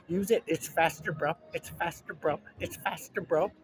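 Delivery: high mock chant of the ad line; commercial chorus. The people in the ad urging the lady. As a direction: repeat it like pushy ad extras. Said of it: "Everybody's saying to the lady".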